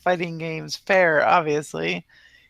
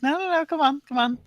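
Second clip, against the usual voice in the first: imitated pleading; 8 semitones higher, faster than usual. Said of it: "you're like".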